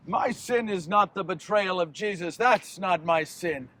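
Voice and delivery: low, soft, grave denial; hushed confession. Acted. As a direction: drop low and confide it. Judas confesses what his sin isn't.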